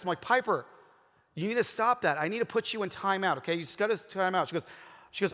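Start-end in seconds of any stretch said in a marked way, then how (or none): 0.2-4.5 retold firm parent, pitched up; lightly acted exasperated telling-off; mild parental scolding. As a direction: lay down the law, mildly.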